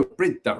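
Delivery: Bridda said brid-DAH, short "i"; stress on second syllable. Shown as a demonstration. Reader getting the mansion's name straight, Bridda as brid-DAH. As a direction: settle on Bridda with the weight on DAH. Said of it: "with the emphasis on the second syllable".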